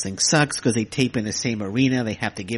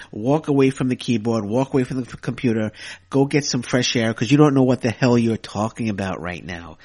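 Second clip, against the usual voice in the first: worked up rant; 3 dB louder than usual. Real, not acted. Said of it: "I'm just getting worked up here".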